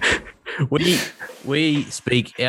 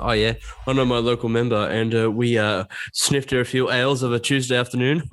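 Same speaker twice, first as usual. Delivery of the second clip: lightly hammed-up posh English accent. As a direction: put on a mock posh voice. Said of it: "that was my posh impression".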